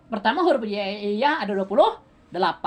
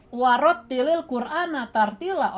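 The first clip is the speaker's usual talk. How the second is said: slow, higher-pitched recited verse; Quran recitation; 4 semitones higher than usual. Shown as a demonstration. Teacher quoting a verse to the class, slow recitation. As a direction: recite it slowly and clearly.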